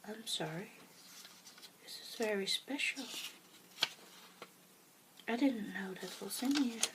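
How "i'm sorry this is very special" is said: whisper. Real, not acted. Finds her late mother's note.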